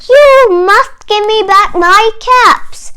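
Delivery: 1 stern demand. Acted. Peddler demands caps back.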